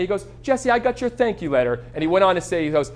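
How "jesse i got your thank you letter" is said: raised-pitch British impression; Simon Sinek. Caller acknowledging a thank you letter, mock British accent. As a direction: put on a high British accent. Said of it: "my attempt at a British accent".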